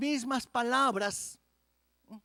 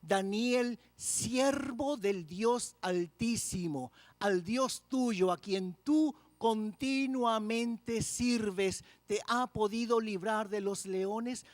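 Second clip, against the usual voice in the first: mild sad call; slower than usual. Acted. King calling into the lions' den, a touch of sorrow. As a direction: draw out the king's worried question gently. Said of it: "con voz triste".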